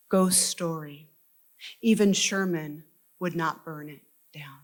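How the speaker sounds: measured poem reading, each phrase launched firmly then falling away; deliberate literary recital with weighted pauses between phrases; poetry reading. Real, not acted. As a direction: read it as a solemn elegy, letting each line settle. Reads own poem aloud.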